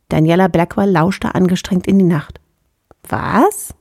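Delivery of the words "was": breathless startled whisper. Acted. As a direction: whisper it, straining to hear. Lauscht angestrengt in die Nacht. (erschrocken geflüstert)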